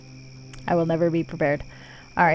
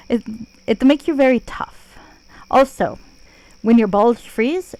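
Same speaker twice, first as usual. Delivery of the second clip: terrible Russian Jamaican accent. Shown as a demonstration. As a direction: fake a clumsy Russian-Jamaican lilt on purpose. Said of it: "you can imagine it with the accent".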